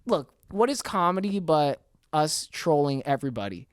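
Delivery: loud stage whisper. Real, not acted. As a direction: confide it in a whisper. Confiding aside, whisper heard.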